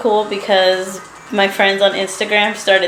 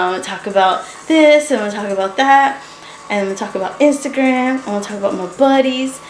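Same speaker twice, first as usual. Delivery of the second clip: quick, self-mocking excited rattle; pumped, full of energy; 4 semitones higher than usual. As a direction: reel off plans on and on. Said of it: "I was all pumped and full of energy".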